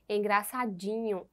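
"engraçadinho" with the stress on the syllable "di". Shown as a demonstration. Teacher pointing out the tonic syllable, "engraçadinho" stressed on "di". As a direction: lean on "di" in "engraçadinho". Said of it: "nós temos aí o din".

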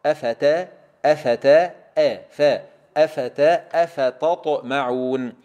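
أفتا repeated with light ت, then slow أفتطمعون; deliberate drill building أفتا into أفتطمعون; syllable-by-syllable drill. Shown as a demonstration. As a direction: break up أفتطمعون, isolating the thin t before ط. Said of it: "نخلص التاء من الطاء".

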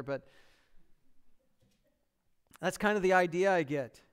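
ordinary delivery

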